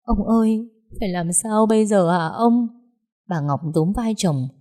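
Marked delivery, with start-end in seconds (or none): 0.0-2.7 higher, tearful plea; pleading in tears. Acted. Wife shaking her husband, pleading tearfully. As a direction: beg him through crying. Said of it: "khóc thống thiết không ngừng".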